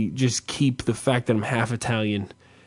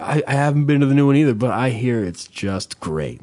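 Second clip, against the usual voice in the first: mock weather report sign-off. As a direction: sign off like a news anchor ending the forecast, half joking. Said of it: "Like I'm wrapping up a fucking weather report".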